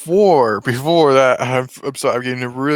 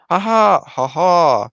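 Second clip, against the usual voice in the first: hammed-up villain laugh; spoken "ha ha" of a gloating pursuer; Jumba; 6 semitones higher, 5 dB louder, slower than usual. Jumba spots the runaway experiment, mock triumphant laugh. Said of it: "he hears Jumba. He's like".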